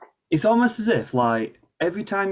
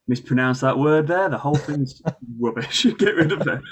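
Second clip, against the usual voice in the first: exaggerated self-criticism; 3 semitones higher than usual. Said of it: "I'm exaggerating, obviously, for effect".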